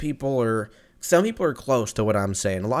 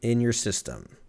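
slow deadpan ask; slower than usual. Retold or imitated. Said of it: "Do you have".

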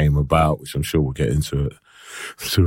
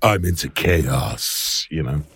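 Jeff Goldblum impression; 2 semitones lower, slower than usual. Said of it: "Jeff Goldblum with his shirt undone".

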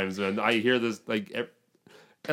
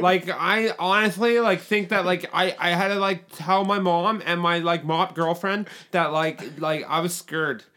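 higher, slowed creepy killer voice; serial killer voice; 3 semitones higher, slower than usual. Acted. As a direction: talk like a calm psychopath. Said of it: "a serial killer voice".

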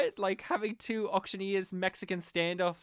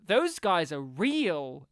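slow mock deadpan; 5 dB louder, much slower than usual. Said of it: "And she's like".

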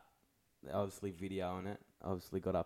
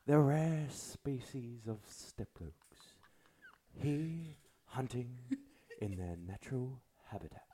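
documentary narrator; 4 semitones higher than usual. Acted. Joins the documentary bit.

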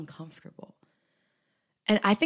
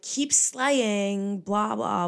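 put-on Southern accent; 4 semitones higher, 3 dB louder, much slower than usual. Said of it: "thick Southern accent".

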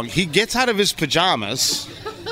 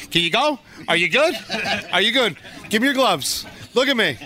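urgent corner-man checking on him, higher pitch; imitating his wife; 5 semitones higher than usual. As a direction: play a ringside coach testing a dazed boxer. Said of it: "She's like".

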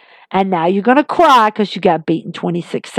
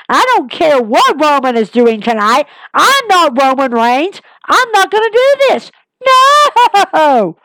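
excited retelling; 5 semitones higher than usual. Retold or imitated. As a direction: fire it off, thrilled. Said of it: "puts it plain and simple".

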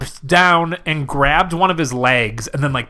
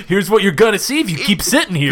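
mock TV announcer; 5 semitones higher, faster than usual. Continuing mock TV promo.

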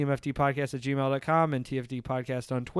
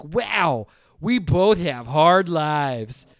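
mock sappy; 4 semitones higher, 6 dB louder, much slower than usual. Mocking the movie's ending.

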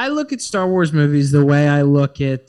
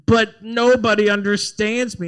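put-on higher whiny pouting teen; 6 semitones higher, 3 dB louder than usual. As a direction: whine it like a sulky teenager. Imitating whiny Anakin.

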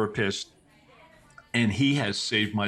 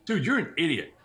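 higher and laughing through it; laughing put-down; 7 semitones higher than usual. Retold or imitated. Glenn mocking the old therapist, laughing as he says it. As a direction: scoff at him while cracking up.

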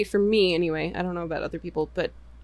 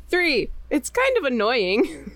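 higher, mildly worried pain-scale read; mounting mock concern; 6 semitones higher than usual. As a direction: play the pain getting a bit worse. Acting out an escalating pain scale.

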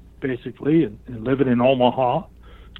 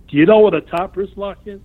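pitched up, louder, doubting he knows; incredulous question; 7 semitones higher, 4 dB louder than usual. Retold or imitated. The trainer quizzing the rookie, incredulous. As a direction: voice rising as if he can't believe it.

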